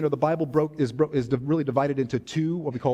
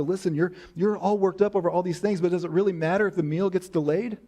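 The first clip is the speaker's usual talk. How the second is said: reassuring; 5 semitones higher than usual. Pretend. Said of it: "He tells Martha".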